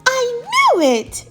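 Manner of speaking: high, loud, drawn-out triumph; whoop of delight. Acted. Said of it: "with a whoop of delight".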